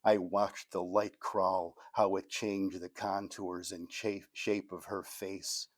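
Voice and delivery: measured recital, easing down at phrase ends; poetry reading. Acted. Poet reading Sleeping In to an audience, poetry reading. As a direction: read it out in short, deliberate phrases. Reads own poem aloud.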